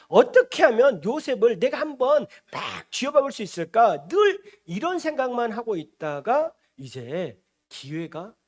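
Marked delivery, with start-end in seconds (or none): 0.1-4.1 louder, acted resentful outburst; exasperated scheming. Brothers long to knock Joseph about, exasperated. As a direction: itch to get back at him.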